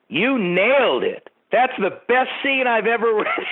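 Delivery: put-on high, excited Valley girl gush, laughing at the end. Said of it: "started speaking in her regular voice".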